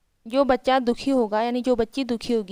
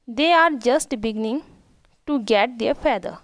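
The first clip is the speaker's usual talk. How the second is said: slow, careful read of each English word; slow reading aloud; much slower than usual. Shown as a demonstration. Teacher reading the English story line to her pupils, slow and careful. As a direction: read it out slowly for the class.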